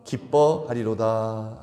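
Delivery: slow recitation; scripture reading. Shown as a demonstration. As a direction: read it aloud with the congregation, slowly. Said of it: "시작".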